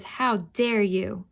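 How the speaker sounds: slow, drawn-out indignant demo. Shown as a demonstration. Teacher demonstrates indignant for the class, slowed down. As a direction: show the class how indignant sounds. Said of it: "what indignant sounds like".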